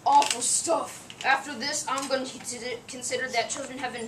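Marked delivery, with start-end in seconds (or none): 0.0-1.1 slow, disgusted grumble. Acted. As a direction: grimace at the taste. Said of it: "makes an awful face".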